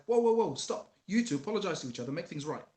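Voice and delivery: loud, high stop to a sibling fight; calling a stop. Retold or imitated. Son stopping his brother's fight, loud and high. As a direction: break up the boys' squabble. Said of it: "it's like".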